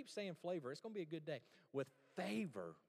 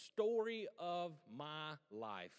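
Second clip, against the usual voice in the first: mock sigh; 3 dB louder, much slower than usual. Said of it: "If you hear me saying".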